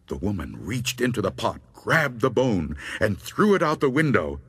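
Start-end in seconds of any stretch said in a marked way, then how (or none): none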